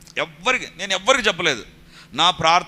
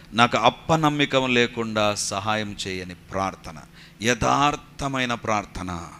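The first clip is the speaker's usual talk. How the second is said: slow, low heartfelt prayer; earnest plea; 5 semitones lower, slower than usual. Retold or imitated. Father praying to God for help with unbelief, earnest plea. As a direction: plead slowly from the heart, voice lowered. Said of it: "నిజముగా మొరపెట్టాడు".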